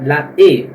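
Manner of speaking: la E with a closed e sound. Shown as a demonstration. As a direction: close the vowel in la E. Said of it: "la E e não é". (la E mais fechado)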